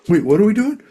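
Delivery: high, loud retold alarm; startled protest. Friend balking as they cross the street, startled. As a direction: imitate someone suddenly balking, pitch shooting up.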